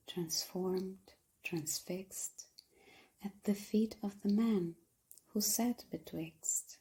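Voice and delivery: hushed, breathy poem reading with measured pauses; poetry recitation. Acted.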